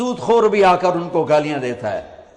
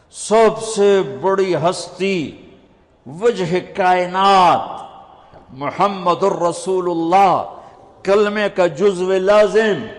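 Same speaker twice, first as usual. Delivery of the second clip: slow, stretched oratorical praise; grand exaltation; slower than usual. Acted. Preacher extols the Prophet title by title, slow grand oratory. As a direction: proclaim each title slowly, pausing after each.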